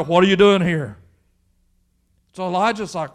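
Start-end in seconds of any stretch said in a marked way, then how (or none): 0.0-1.0 loud, pointed question as God; lightly acted God, voice raised. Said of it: "he's asking Elijah".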